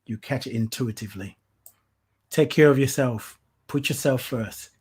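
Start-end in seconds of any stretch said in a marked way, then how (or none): 2.3-4.7 emphatic urging. Real, not acted. Host urging viewers to put themselves first, emphatic. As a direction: drive the point home. Repeated advice, first take.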